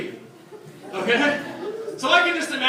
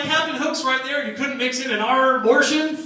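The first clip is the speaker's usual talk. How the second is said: pirate voice; 4 semitones higher than usual. Retold or imitated. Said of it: "And she's like".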